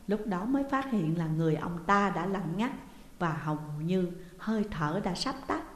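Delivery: plain reading voice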